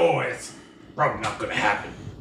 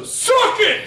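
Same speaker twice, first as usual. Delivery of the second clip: gloating yell, much higher and louder; triumphant shout; 5 dB louder than usual. Real, not acted. Triumphant dice roll.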